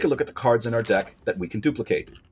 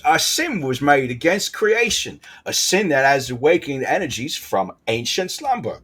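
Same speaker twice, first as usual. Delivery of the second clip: awful put-on accent; 3 semitones higher than usual. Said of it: "That is an awful accent".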